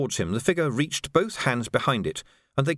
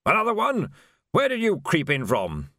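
higher startled voice, easing down; startled victim; 5 semitones higher than usual. A narrator's reading. Dead lord to black-clad figure, startled. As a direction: blurt it at a new intruder.

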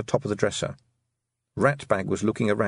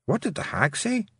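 high little creature voice; small voice; 11 semitones higher than usual. A narrator's reading. One tiny creature asks another, small high voice. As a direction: pipe up as a tiny hidden creature. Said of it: "the sound of small voices".

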